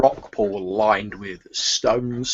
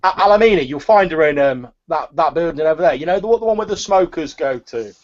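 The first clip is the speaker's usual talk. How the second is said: higher, nervous market woman calming a customer; nervous seller calming an angry buyer; placating turnip seller; 5 semitones higher, 5 dB louder than usual. Acted. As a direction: soothe him, all in a fluster. Seller gives directions.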